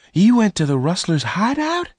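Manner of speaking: high, alarmed question; a girl horrified at the danger he took; in horror. Acted. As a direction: gasp it out, horrified. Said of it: "Bess asked in horror".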